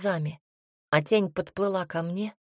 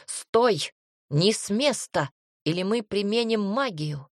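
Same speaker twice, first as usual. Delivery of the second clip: shouting command. Acted. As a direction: call out an order. Guard calls out at gate.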